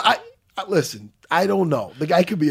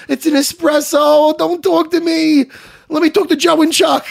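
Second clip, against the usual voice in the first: higher, slow, exasperated outburst; mock exasperated; 10 semitones higher, 4 dB louder than usual. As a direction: spell it out to the idiot, slowly and high. Heated retold retort.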